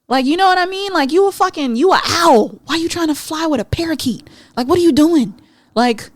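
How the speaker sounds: high, loud, fired-up scolding; heated rant. Real, not acted. Podcaster ranting at listeners about dating the wrong birds, fired up. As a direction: lay into them with full energy.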